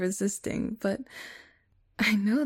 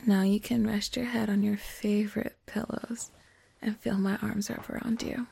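soothing whisper. Acted.

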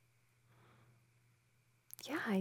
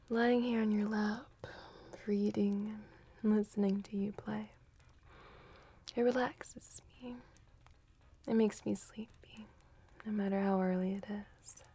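whispering. Acted. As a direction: breathe it close and hushed. Whispered girlfriend roleplay.

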